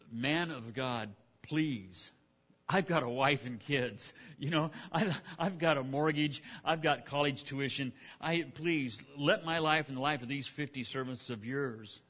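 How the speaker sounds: slow, earnest begging for his life; pleading captain. Retold or imitated. Third captain begging Elijah on his knees, slow pleading. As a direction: plead gently, as if your family depends on it. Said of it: "pleaded with him and said".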